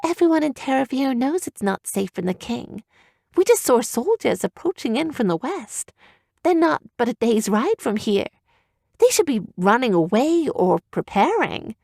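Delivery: put-on urgently worried girl, kept down; young girl voice. Girl voice continuing to Owen.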